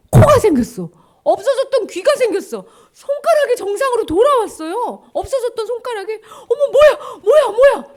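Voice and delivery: high, loud, gasping wonder; amazed excitement. Acted. Lepers discovering restored fingers and ears, amazed. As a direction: exclaim each discovery in mounting amazement.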